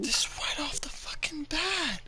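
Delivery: whispered aside; whispering. Real, not acted. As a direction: whisper it in disbelief. Reacts during the reading.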